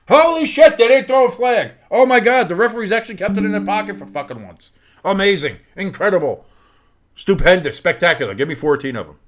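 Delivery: shouted high in disbelief, then gushing superlatives; stunned outburst. Real, not acted. Commentator to his stream audience, shocked loud cheer. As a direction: yell it like the refs finally got one right.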